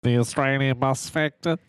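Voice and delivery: light nasal Aussie put-on; mock Australian accent. Playing along with the news bit, Australian accent. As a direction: answer in a pretend Australian twang. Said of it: "in your Australian accent".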